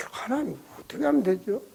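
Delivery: a hushed, private plea; whispered prayer. Retold or imitated. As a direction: whisper the question to God.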